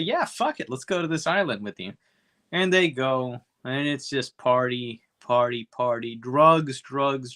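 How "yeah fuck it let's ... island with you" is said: much higher, quick reckless yes; mock carefree waitress. Retelling the waitresses accepting the invite, giddy mock voice. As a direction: toss it off like a giddy partier.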